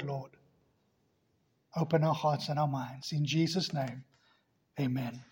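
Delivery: hushed pastoral prayer. Acted. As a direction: pray it sincerely, settling down at the end. Pastor leads a short prayer.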